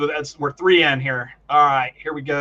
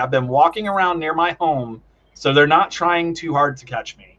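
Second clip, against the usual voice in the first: ordinary talk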